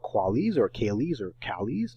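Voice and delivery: "quales or cales or cales", each a different pronunciation; alternative pronunciations. Shown as a demonstration. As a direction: sound out "quales", "cales", "cales" as three variants. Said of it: "depending upon how you pronounce them".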